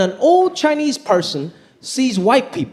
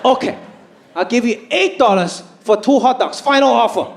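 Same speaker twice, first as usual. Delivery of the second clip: haggling dad; 3 semitones higher than usual. Retold or imitated.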